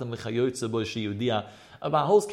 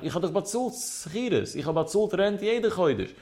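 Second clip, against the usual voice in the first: mild protesting cry; 4 semitones higher than usual. Acted. Tenant protesting to the rightful owner that rent was paid, mild outcry. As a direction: act out an indignant protest lightly. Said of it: "Sie schreit, es solche schreit".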